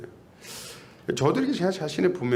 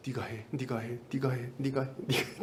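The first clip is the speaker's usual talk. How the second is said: echoing in mind; 2 semitones lower, 8 dB quieter than usual. Retold or imitated. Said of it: "밤은 셉니다".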